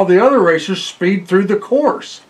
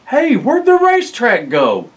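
confused driver; 7 semitones higher than usual. Acted.

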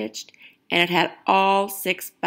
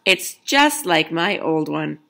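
put-on slow, louder, contented old man's voice; proud Grandpa; 5 dB louder, slower than usual. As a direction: Grandpa tells Grandma about the new cardigan. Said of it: "Grandpa replied".

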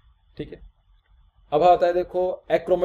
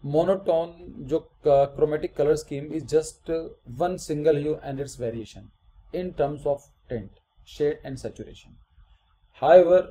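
slow, measured read-aloud with pauses; slow dictation; much slower than usual. Acted. Teacher reading the color scheme definition to students, slow and measured. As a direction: read it out phrase by phrase for note-taking.

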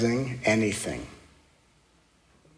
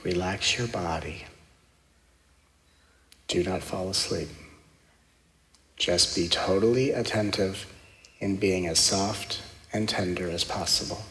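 guided meditation; 3 semitones lower, 6 dB quieter than usual. Acted. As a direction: guide them gently into stillness.

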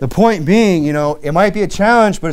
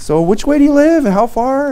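casual question; 11 semitones higher, 4 dB louder than usual. Retold or imitated. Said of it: "I'm like".

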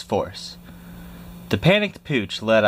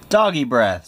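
mild mock scream; 3 semitones higher than usual. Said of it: "screamed the soldiers".

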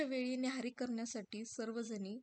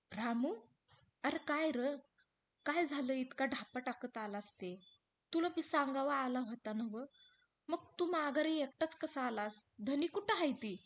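lightly raised anxious questions; worried wife questioning; 3 semitones higher, 3 dB louder than usual. Acted. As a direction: press him for news. हिरा रामूला विचारते. (घाबरलेली हिरा रामूला प्रश्न विचारते)

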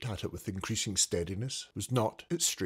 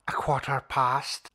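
Scrooge counting; 3 semitones higher than usual. Acted.

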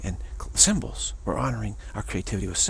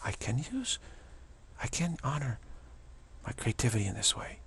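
hushed shock; 6 dB quieter than usual. Retold or imitated. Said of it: "it's a shock".

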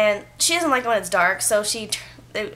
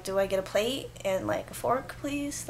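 timid polite request; 7 dB quieter than usual. Retold or imitated. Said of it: "kept looking at everybody going".

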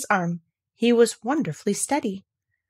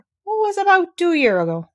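lightly voiced old gardener; 11 semitones higher, 5 dB louder than usual. A narrator's reading.

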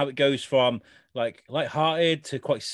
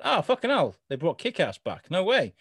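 surprised; 5 semitones higher than usual. Retold or imitated. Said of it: "I was thinking".

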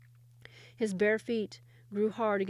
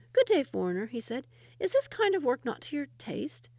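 put-on teasing shepherd boy; 5 semitones higher, 4 dB louder than usual.

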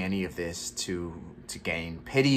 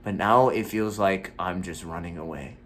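louder, heated and exasperated; frustrated rant; 3 semitones higher, 3 dB louder than usual. Acted. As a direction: vent the years of frustration. Monologue builds into a rant.

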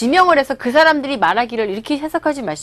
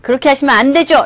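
meddling junior; 5 dB louder than usual. Acted. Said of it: "라고 훈수 둘 때".

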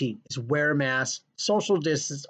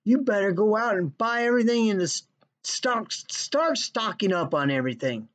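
hoarder voice; 4 semitones higher than usual. Retold or imitated. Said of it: "this little fucktard goes".

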